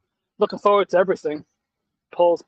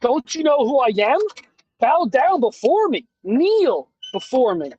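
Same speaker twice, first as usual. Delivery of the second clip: cold rasping evil emperor; 4 semitones higher than usual. Pretend. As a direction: lord it over them like an emperor. Mocking a pompous chat member.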